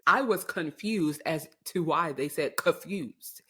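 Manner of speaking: "confused" said as kuh-FYOOZD, dropping the N; mispronounced confused. Shown as a demonstration. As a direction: say "confused" without the N sound. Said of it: "they dropped the N".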